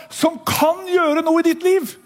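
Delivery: slow, ringing proclamation; preaching shout. Real, not acted. Preacher to congregation, slow ringing proclamation. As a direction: drive the promise home.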